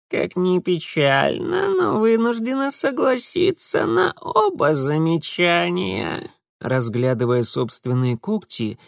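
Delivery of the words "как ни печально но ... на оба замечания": slow, high creaky sigh; melancholy creak. A narrator's reading. Mara studying her claws, creaking wearily. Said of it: "меланхолично проскрипела Мара".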